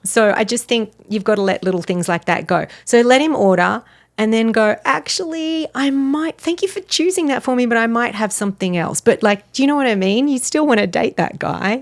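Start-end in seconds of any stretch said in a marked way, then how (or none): 4.8-9.0 higher, softer tentative pitch; polite refusal. Acted. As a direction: gently model a tactful objection. Models a polite refusal to date.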